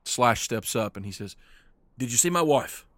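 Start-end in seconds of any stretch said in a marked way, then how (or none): 2.0-2.8 desperate question. Acted. Desperate husband asks about wife.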